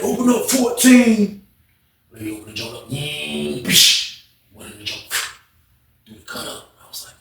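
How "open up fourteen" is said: slow, dejected call, higher pitch; a defeated man asks for his cell; sad. Retold or imitated. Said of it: "That joint sound super sad".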